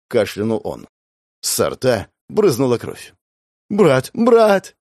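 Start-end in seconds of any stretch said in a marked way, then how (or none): 3.7-4.8 high, loud hysterical cries; hysterical screaming. A narrator's reading. Sister screaming over her dying brother. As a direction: scream his name in hysteria. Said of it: "истерично закричала девочка".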